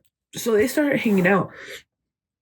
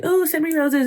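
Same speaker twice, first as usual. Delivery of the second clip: higher, sing-song mock of a begging streamer; mocking beggar; 7 semitones higher than usual. Mocking streamers who beg viewers for roses, sing-song. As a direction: mimic someone fishing for gifts.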